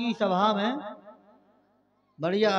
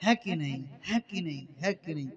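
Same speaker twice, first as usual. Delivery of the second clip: donkey bray; 4 semitones lower, 5 dB quieter than usual. Retold or imitated. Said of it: "फिर बाद में कहता".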